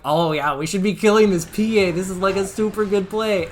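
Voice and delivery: high, loud burst of enthusiasm; excited realization. Retold or imitated. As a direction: reenact suddenly loving the plan. Acts out his realization in game.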